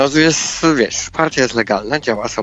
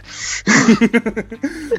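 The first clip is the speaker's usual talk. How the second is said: high-pitched burst of laughter; real, amused high laugh; 9 semitones higher than usual. Real, not acted. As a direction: crack up at your own quip. Reaction to own joke.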